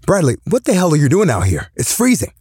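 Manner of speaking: put-on fast, high drunken scolding; drunk father. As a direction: slur it like a tipsy dad. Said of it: "I could tell he was drunk".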